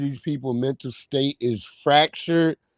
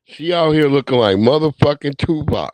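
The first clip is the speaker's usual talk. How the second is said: loud roast; 7 dB louder than usual. Real, not acted. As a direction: shout the joke. Repeat roast.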